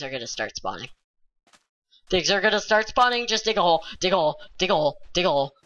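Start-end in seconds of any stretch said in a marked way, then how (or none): 2.1-5.5 panicked. Real, not acted. Panic before nightfall.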